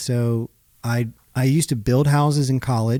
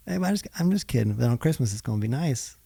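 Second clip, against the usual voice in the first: fast, soft, placating; backpedaling husband; 5 dB quieter, faster than usual. Retold or imitated. Husband softly backing down to his wife. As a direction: soften it to calm her.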